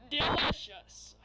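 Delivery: slow, sleazy drawn-out voice; sleazy pickup line. Acted. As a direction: savour the word like a creep. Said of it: "I gotta do this guy voice".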